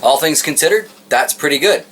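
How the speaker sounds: talking while crunching chips. Real, not acted. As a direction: say it through a mouthful of chips. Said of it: "please forgive the crunching".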